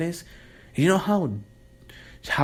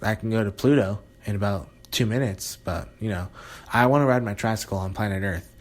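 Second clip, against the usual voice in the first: sarcastic straight-faced put-on; deadpan sarcasm. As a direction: play the fake eager space-denier with a straight face. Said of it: "to say that with a straight face".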